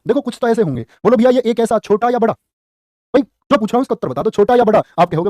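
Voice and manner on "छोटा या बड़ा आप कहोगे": ordinary delivery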